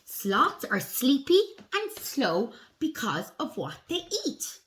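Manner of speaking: slow, deliberate storybook reading; picture-book read-aloud. A narrator's reading. Reading sloth facts to children, slow storybook voice. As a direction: read slowly to young children, weighting key words.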